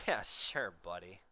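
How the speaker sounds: mock dismissive brush-off, lightly done; condescending. Streamer imitating gamers dismissing someone, mildly condescending. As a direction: imitate someone talking down, a touch sarcastic. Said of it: "Like, it's so condescending".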